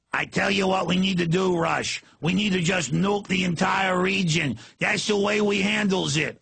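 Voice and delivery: light mock Yankee accent; lightly hammed Yankee voice. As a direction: poke fun at a Northern caller. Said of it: "Now we've been fair".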